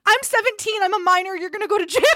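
high-pitched imitation of a pleading minor; mock teen protest. Storyteller mimicking friend warning the angry man, high mock protest.

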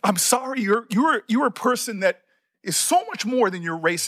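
halting, apologetic, real feeling; emotional. Real, not acted. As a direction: stumble over the words as emotion comes up. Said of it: "this is why I get emotional".

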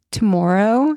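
"Tomorrow" said slowly set apart, rising; own accented tomorrow. Shown as a demonstration. Midwesterner demonstrates her accent to cohost, "Tomorrow" rising. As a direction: show off how you say "Tomorrow". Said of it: "And I also say".

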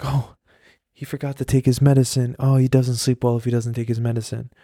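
mildly put-on motherly concern; imitating mom laying on an excuse; theatrical mom. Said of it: "theatrics, and she's like".

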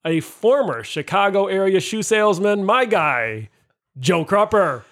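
punchy announcer read with held pauses; measured, playful emcee build-up; show host intro. Acted. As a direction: introduce guests like an announcer, phrase by phrase.

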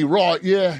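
brief mock Cockney; tossed-off imitation of Cockney speech; Cockney accent. Shown as a demonstration. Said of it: "the Cockney".

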